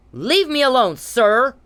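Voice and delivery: angry demand. Real, not acted. Demanding Mister Perry leave her alone, loud. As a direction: push him away with volume.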